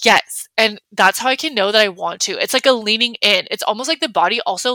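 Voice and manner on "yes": thrilled gut yes; excited yes. Shown as a demonstration. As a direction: gasp and lean into the invite.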